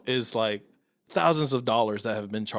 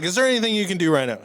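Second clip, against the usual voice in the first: fast, higher impatient push; impatient demand; 5 semitones higher, faster than usual. Retold or imitated. Pressing the Amazon agent, fast and impatient. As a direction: hurry him up. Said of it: "I was so mad".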